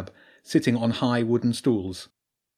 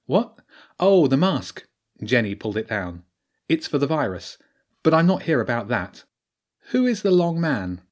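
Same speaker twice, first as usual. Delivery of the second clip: Jenny's voice; 3 semitones higher, 3 dB louder than usual. Acted.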